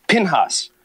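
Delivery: slow whisper of "Pinhas"; recalling his coworker's name, unvoiced and slow. Real, not acted. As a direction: breathe the name "Pinhas" out slowly.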